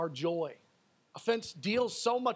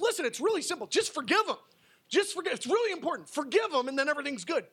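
higher, urgent, pressing voice; urgent plea; 6 semitones higher than usual. Acted. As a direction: press them to just forgive. Preacher paraphrases Jesus urgently.

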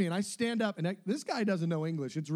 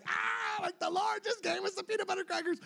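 triumphant cheer; 12 semitones higher than usual. Retold or imitated. Triumphant photo exclamation.

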